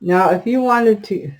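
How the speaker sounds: talking around a pin held in the mouth. Real, not acted. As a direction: mouth full, pins in mouth. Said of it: "I got a pin in my mouth".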